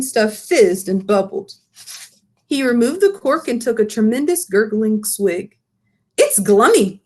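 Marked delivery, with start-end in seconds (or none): 6.2-7.0 a touch louder, delighted; mild happy cry over a drink. Acted. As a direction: BFG tasting frobscottle, mildly excited. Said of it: "he cried".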